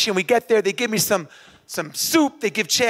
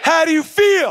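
higher, forceful coach's call; rousing call-out; 5 semitones higher, 4 dB louder than usual. Acted. Coach drilling the runner on the only answer, rousing call. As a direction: fire the question at the crowd for a response.

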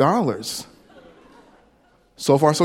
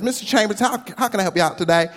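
put-on southern accent; 5 semitones higher, faster than usual. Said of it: "someone with a southern accent".

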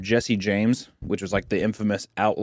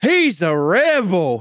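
awed townsfolk; 6 semitones higher, 4 dB louder, much slower than usual. Retold or imitated. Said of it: "people are just like".

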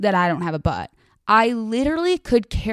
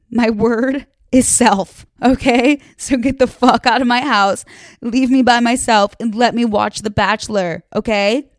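emphatic rant; 2 semitones higher, 6 dB louder than usual. Real, not acted. Kicking friends out so she can watch, loud mock rant. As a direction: get your friends out, hammed-up loud.

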